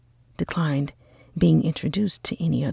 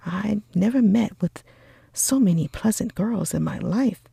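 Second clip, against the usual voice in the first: put-on lively young gentleman, louder and brighter; eager, cheerful cry; 3 semitones higher, 4 dB louder, faster than usual. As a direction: gush about the pretty girls. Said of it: "cried Bingley".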